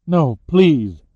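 loud, urgent plea; begging. A narrator's reading. Captive pleading for her friend's life, begging. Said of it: "Lauren begged".

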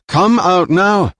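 high, loud, slow come out now, each word weighted; slow menacing command. Acted. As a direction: spell out the order slowly as a threat. Jilan's slow repeated demand.

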